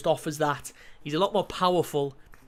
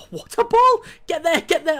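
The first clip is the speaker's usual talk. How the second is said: much higher, loud shout; excited shout; 10 semitones higher, 9 dB louder than usual. Real, not acted. Gamer yelling at a great pass, excited. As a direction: yell him on to the ball.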